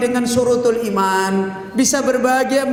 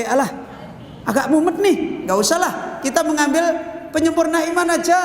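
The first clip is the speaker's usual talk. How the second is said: 1 mock tired, lazy believer; 5 semitones higher than usual. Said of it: "terus capek".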